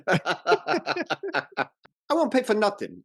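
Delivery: put-on high, indignant old father; imitating the father. Father refusing to pay for the wedding, high and stubborn. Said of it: "I love the intonation on his final line".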